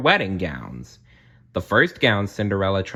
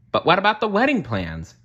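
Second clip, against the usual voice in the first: much higher worried mouse voice; mouse Jock; 10 semitones higher than usual. A narrator's reading. Jock the mouse worrying about the wedding plans, high and anxious. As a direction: fret like a little mouse. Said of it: "Jock asked".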